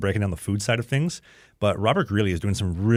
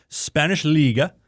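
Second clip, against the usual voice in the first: slow, drawn-out Swedish accent on "Liga"; 6 semitones higher, 4 dB louder, slower than usual. Real, not acted. Hockey player signing off the show, slipping into a slow Swedish accent. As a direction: let a Swedish accent slip into "playing in the Spanish Liga". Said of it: "I don't know why I'm using a Swedish accent".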